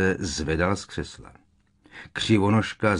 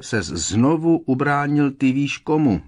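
high, louder insistent near-shout; almost shouting; 7 semitones higher, 5 dB louder than usual. A narrator's reading. Ron insisting on Harry's feats, almost shouting. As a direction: pile on the proof, nearly yelling. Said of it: "Ron už skoro křičel".

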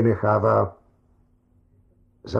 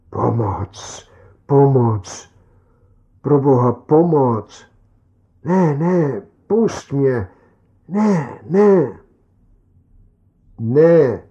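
shrieking for help; 3 semitones higher, 5 dB louder, slower than usual. A narrator's reading. Trapped inner voice screams for help, louder and more frantic toward the end. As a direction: scream in growing panic. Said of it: "hlas ječí".

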